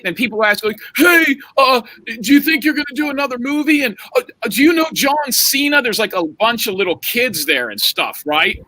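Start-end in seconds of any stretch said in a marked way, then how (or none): 1.0-5.8 put-on excited kid calling out. Little kid in the crowd shouting questions at the wrestler, high and eager.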